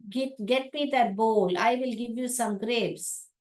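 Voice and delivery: slowly spoken, bowl said as bol; slow model sentence. Shown as a demonstration. Teacher modelling a sentence for students. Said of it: "बोल".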